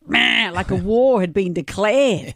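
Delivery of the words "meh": drawn-out "meh" of mass outrage; exaggerated collective "maah"; imitated outcry. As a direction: blurt a mock battle-cry bleat. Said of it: "everyone just went".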